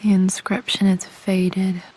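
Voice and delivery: hushed whisper, close and intimate. Acted. Daughter handling her mother's keepsakes, whispering. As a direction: whisper as if afraid to disturb it.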